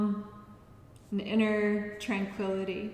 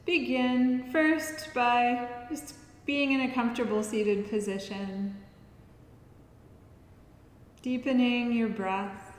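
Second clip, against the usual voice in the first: guided relaxation. Acted. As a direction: guide them unhurriedly through each breath. Leads breathing practice.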